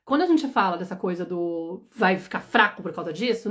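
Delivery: ordinary talk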